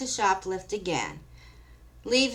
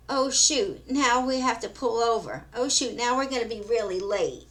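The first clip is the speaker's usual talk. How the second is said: put-on valley girl whine; 4 semitones higher than usual. Valley girls pulled over.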